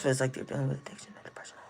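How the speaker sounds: hushed unvoiced whisper; quick whispered aside. Real, not acted. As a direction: drop to a breathy whisper, fast.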